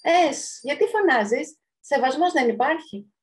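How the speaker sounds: indignant scolding. Acted. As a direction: scold the noisy neighbour. Fridge neighbours scold the noisy juice. (αγανακτισμένη επίπληξη)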